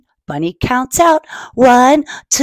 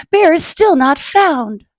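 higher-pitched, worried Snake; dismayed cry; 7 semitones higher than usual. Acted. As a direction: keep crying out the bad news, acted. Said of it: "cries Snake".

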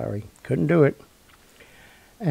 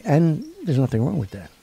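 Seinfeld quote; 5 semitones higher than usual. Retold or imitated. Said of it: "or whatever Seinfeld used to say".

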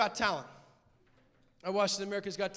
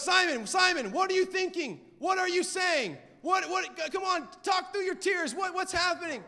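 Tyra Banks; 8 semitones higher, 3 dB louder than usual. Retold or imitated. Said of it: "And Tyra Banks, being used of the Holy Spirit".

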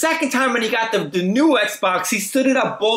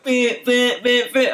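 mock disc drive beeping; 3 semitones higher, slower than usual. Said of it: "keeps giving me the same issue".

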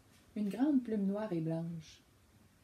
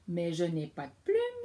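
louder, a lizard hissing its denial; 2 semitones lower, 5 dB louder than usual. Acted. The lizard answers the wolf cub, hissing. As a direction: play Zip the lizard, proud of his scales. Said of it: "siffla Zip le lézard".

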